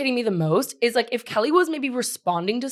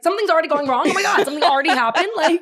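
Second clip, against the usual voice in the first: mock panic; 5 semitones higher, faster than usual. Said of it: "the way Bethany walked down was like".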